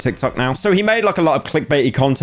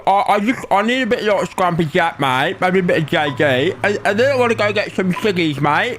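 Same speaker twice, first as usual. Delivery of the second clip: hammed-up Aussie bloke, higher pitched; mock Australian accent; 7 semitones higher than usual. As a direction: play a cartoon Australian calling his mate. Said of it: "everyone talks like this".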